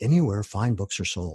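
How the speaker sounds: low, late-night radio DJ announcer delivery. Asked where to buy the book, answering into the microphone in a late-night dj voice. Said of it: "very good, like, late night DJ rendition".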